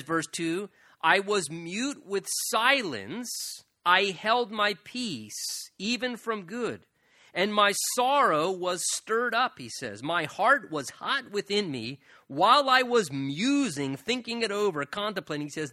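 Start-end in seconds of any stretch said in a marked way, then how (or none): 1.0-9.6 slow, drawn-out solemn reading; measured, emphatic pulpit recitation; scripture reading. A narrator's reading. Reads the psalm verse aloud. 10.0-15.5 deliberate pulpit recitation; scripture reading. A narrator's reading. Reads the psalm verse aloud.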